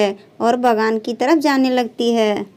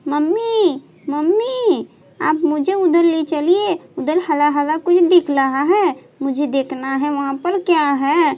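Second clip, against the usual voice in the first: put-on little girl calling mummy, higher; excited girl begging mother to take her; eager calling; 3 semitones higher than usual. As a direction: call for mummy, wanting to go see. Child calls mother eagerly.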